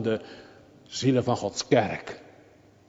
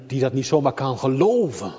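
ordinary talk, nothing marked

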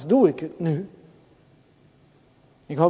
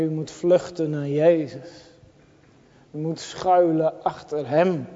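ordinary delivery

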